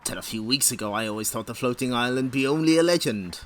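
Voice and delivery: lightly put-on old pirate captain brogue, slowed; a hint of a salty sea captain telling of the map; pirate accent. Host voicing Captain Plunder reading the comic, a light pirate accent. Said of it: "what accent I'm doing for Captain Plunder".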